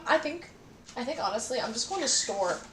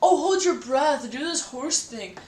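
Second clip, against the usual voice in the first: exasperated laughing rant; 5 semitones higher, 7 dB louder than usual. Real, not acted. Exasperated by hiccups.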